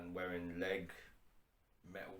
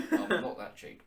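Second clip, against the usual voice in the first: higher and louder through a laugh; 12 semitones higher, 13 dB louder than usual. Shown as a demonstration. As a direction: laugh it out indignantly.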